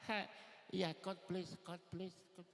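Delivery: put-on fob kid. Fresh-off-the-boat boy answering classmates, shy and laughing. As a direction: bluff along with a shy laugh. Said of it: "I was like".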